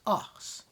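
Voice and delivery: "os" with a short open O, like "oss". Shown as a demonstration. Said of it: "and a short O pronounced".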